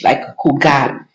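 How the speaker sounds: "jugar" with the J said like an English H; Spanish J as H. Shown as a demonstration. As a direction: say "jugar" with a breathy H sound at the start. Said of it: "J, you say H".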